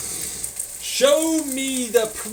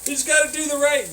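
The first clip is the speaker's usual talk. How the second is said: higher, fast advice giver; mock platitude voice; 4 semitones higher, faster than usual. Mocking the platitudes people say, quick and higher. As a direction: rattle off the cheap advice mockingly. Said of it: "they say".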